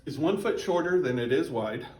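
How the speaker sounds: talking with ice in mouth; words around a chunk of ice. Real, not acted. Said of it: "sorry, I got ice in my mouth".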